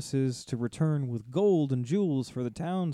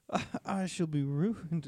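higher-pitched mock despair; mock lament; 6 semitones higher, 4 dB quieter than usual. Dragon mocked for overdramatic bargaining, mock lament. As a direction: playfully imitate a ruined dragon's wail.

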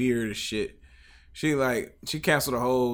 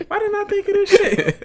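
mock exasperation; 7 dB louder than usual. Acting out a frustrated rapper.

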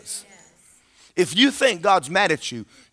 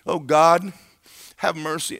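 mock whining prayer. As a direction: act out a whiny beggar's prayer. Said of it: "we get in altars and we whine".

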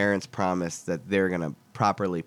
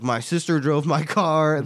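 slow, higher-pitched hippie voice; super hippie kid; 5 semitones higher, slower than usual. Retold or imitated. Kid owning up to a cop about his sister's car, as a slow hippie. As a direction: draw it out like a laid-back hippie. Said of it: "This is, like, the super hippie one".

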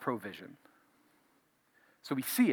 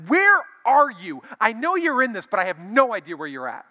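desperate plea to God; 9 semitones higher, 11 dB louder than usual. Retold or imitated. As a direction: call out to a God who seems absent. Pleading with God in prayer.

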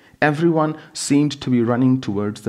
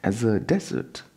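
exasperated disbelief; 7 semitones higher than usual. Acted. Husband dismissing panic.

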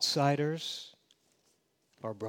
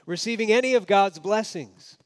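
devout Jew scorning; 3 semitones higher, 5 dB louder than usual. Retold or imitated. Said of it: "So a devout Jew of the day would say".

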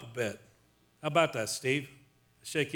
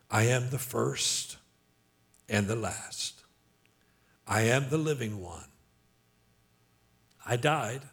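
solemn divine declaration; 4 semitones lower than usual. Acted. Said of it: "and said".

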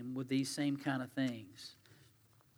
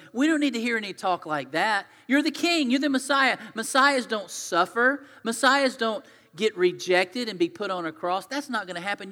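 louder, higher insistent protest; protesting rebuke; 4 semitones higher, 5 dB louder than usual. Retold or imitated. Peter rebuking Jesus, loud and insistent. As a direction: push back hard against him.

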